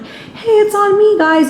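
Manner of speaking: high, drawn-out bartender call; acted-out bartender. Bartender treating customers to a Cinco de Mayo shot, high acted call.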